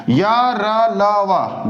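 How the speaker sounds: य, र, ल, व spoken one by one, each sound set apart; careful demo sounds. Shown as a demonstration. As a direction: lay out य, र, ल, व one at a time for the class. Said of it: "ध्यान से देखिएगा".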